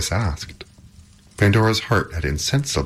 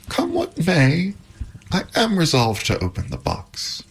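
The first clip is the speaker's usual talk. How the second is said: high, resolved declaration; exclaiming; 12 semitones higher than usual. A narrator's reading. Pandora resolved to open the box, exclaiming. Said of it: "exclaimed Pandora".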